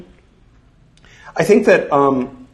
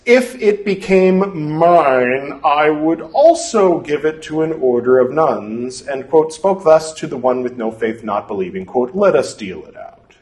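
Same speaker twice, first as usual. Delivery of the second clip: measured, deliberate scripture reading; formal reading aloud; 3 semitones higher than usual. Acted. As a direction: read it like an old formal text. Reads scripture text aloud.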